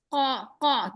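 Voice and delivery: a heavy mother raven's caw; mama raven caw. Retold or imitated. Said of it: "Mama raven says".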